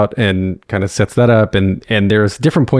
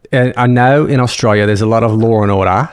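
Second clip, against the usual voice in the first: careful, amateur Australian accent; learner's go at Australian; attempted Australian accent. Shown as a demonstration. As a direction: practise an Australian accent, feeling out each vowel. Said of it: "give me a little coaching".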